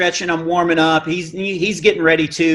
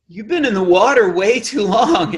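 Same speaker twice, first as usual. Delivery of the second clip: deadpan joke; 3 semitones higher than usual. Retold or imitated. Joking reply, drawn out.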